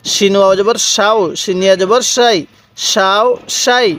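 "শাও", "শাই" with a full sh; thick Shin sound. Shown as a demonstration. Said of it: "শিনের উচ্চারণটা অনেকটাই মোটা আকারে হবে". ("শাও শাই"-তে মোটা শ-ধ্বনি)

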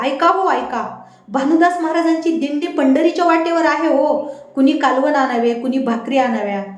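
plain reading voice

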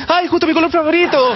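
voz aguda y amanerada de sorpresa; cantante exagerado. Retold or imitated. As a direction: chillido coqueto de alegría. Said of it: "que dice". (imita a un cantante al recibir calzones)

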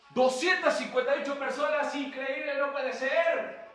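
loud, amazed reaction to the crowd; real excited disbelief. Real, not acted. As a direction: exclaim it, thrilled by the turnout. Amazed at the viewer count.

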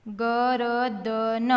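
slow, each letter held; sounded out. Shown as a demonstration. Teacher spelling for beginning readers, sounded out. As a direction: stretch ગરદન out as ga-ra-da-na.

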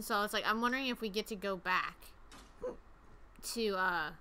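talking with the hiccups; words broken by hiccups. Real, not acted. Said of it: "I have the hiccups now".

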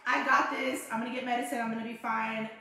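put-on confident child. Mother acting out her son before his shots, confident. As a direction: imitate a brave kid psyching himself up. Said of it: "he's confident. He's not shaking".

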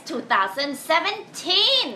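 big radio event hype, ending high; hyped announcer. Real, not acted. Radio DJ announcing a festival to listeners, hyped announcer. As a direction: raise the pitch and draw out the event name.

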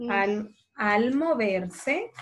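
moverse said slowly, v and s clear; spelling out moverse. Shown as a demonstration. Teacher showing how to spell moverse. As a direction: stretch moverse so each letter is heard. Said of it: "moverse va con V y con S de sapo".

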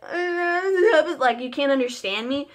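words lost in a mock sob; mock sobbing. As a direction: fake a crying voice that can't get words out. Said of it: "for the end of my speech to be like".

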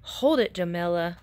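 loud call to hold the pose; shouted. Acted. Photographer shouts at Jamila to hold still, loud call. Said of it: "and shouted".

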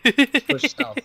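loud, high command shout; shouted order. Real, not acted. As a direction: yell the order to the squad. Repeated squad order, first loud.

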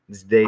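"Zdeta" with the first syllable "Zde" stressed. Shown as a demonstration. Teacher showing the stress in "Zdeta" to a student. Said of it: "put emphasis on that".

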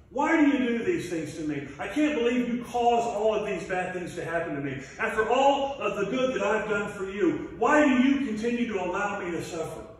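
a mild mock whine, the last line hurried; whining to God. Job whines to God about his suffering, a mild imitated whine. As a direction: complain like a hurt child, lightly. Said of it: "he starts to whine to God".

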